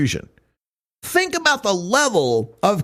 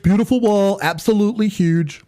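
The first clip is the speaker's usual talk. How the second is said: Trump impression; 4 semitones higher than usual. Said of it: "Trump's idea of".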